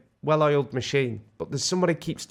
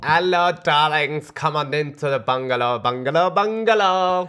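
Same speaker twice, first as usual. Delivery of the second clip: breathy vintage purr; 5 dB louder than usual. Retold or imitated. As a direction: purr it like a camp TV host. Imitating parents' TV show host.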